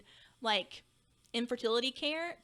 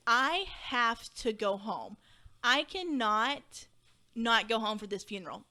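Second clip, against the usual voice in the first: distraught insistence; slower than usual. Retold or imitated. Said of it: "I am so distraught".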